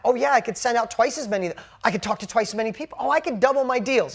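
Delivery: eager, building run of realizations; retold excitement. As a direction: imitate a man getting excited by his idea. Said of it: "And then he got excited".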